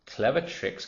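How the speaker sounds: scornful storybook exclamation; incredulous cry. A narrator's reading. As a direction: fling the words back in disbelief. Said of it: "cried the not so big one".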